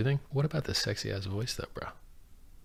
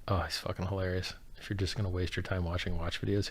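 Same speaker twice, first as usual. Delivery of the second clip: ordinary talk, nothing marked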